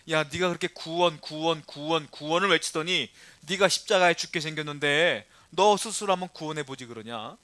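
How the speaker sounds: sarcastic chant on the repeated "구원"; acted sneering challenge; mocking. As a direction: taunt him as a scoffing priest. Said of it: "라고 비웃는 거예요".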